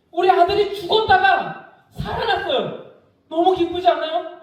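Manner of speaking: high, beaming announcement; joyful father. Acted. Father telling neighbors his son came back, beaming. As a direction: share the joy with the whole village.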